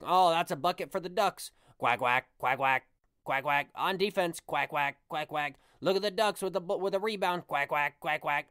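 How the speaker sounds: mock commentator with repeated quacks; Bill Walton. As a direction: lightly imitate an obnoxious announcer quacking between calls. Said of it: "he talked like that for, like, five minutes".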